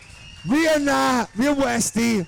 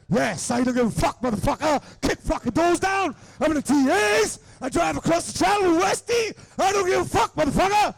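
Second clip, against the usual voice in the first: boasting; 5 semitones higher than usual. Retold or imitated. Imitating Dwyer's boasting.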